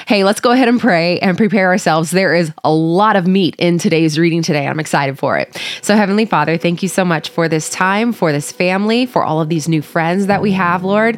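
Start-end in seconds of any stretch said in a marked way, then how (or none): 5.8-11.2 prayer. Acted. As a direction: pray gently and humbly to God. Leads the opening prayer.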